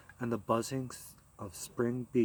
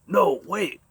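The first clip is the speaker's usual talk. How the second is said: louder and higher, a confused plea; bewildered cry; 7 semitones higher, 9 dB louder than usual. Acted. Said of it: "he cried bewilderedly".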